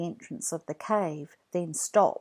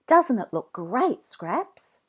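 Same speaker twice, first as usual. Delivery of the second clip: higher, louder delight; proud boy; 5 semitones higher, 5 dB louder than usual. A narrator's reading. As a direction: show off the cave proudly. Jack proud of cave.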